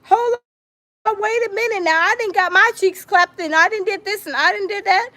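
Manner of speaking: high whiny mock complaint, fake crying; mock whining. Scene: mocking a jealous plaintiff, whiny mock crying. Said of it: "He was like".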